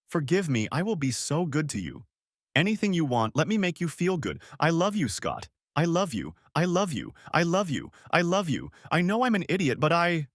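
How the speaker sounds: high, tearful repeated I love you; wife begging husband to stay; frantic pleading. Acted. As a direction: pour it out, desperate.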